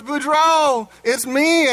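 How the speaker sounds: high-pitched, acted joyful greeting; excited reunion. Marie finding her husband in heaven, acted excitement. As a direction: call out to a long-lost husband.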